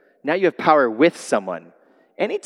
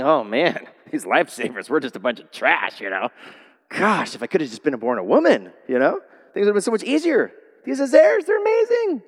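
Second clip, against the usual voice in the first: mock insecure men. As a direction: mimic a self-pitying guy. Mock men envying women.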